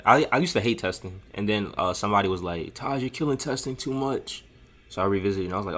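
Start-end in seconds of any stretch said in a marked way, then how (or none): 2.7-4.4 put-on old drunk voice. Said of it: "make somebody sound like, like an old drunk".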